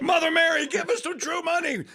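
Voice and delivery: high, loud, laughing appeal; hammed-up cry to heaven; mock plea. Host jokingly begging Mother Mary for funds, mock plea.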